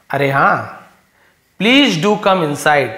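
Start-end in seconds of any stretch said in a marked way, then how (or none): 1.6-2.9 slow, loud invitation; slow reading. Shown as a demonstration. Teacher reading Karim's invitation to the class, slow. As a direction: read it out slowly and clearly.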